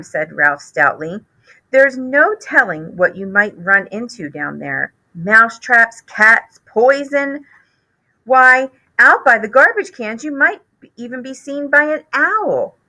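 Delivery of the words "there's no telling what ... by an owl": higher, worried mother listing dangers; anxious mother mouse. Acted. Mother warning Ralph of traps and owls, higher and worried. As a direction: warn like a frightened mother.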